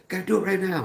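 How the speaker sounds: very high, insistent mock partner voice; hammed-up high-pitched urgency; urgent demand. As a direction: squeal out an impatient order in imitation. Acting partner demanding it now.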